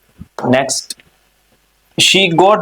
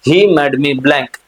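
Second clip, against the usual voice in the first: repeated more briskly; quicker repeat; much slower than usual. Shown as a demonstration. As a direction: run through it once more, faster.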